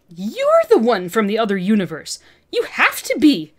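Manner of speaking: loud feral bellow. Acted. Olivia bellowing at Peter, wildly excited and loud. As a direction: bellow it right into his face. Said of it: "Olivia bellowed into his face".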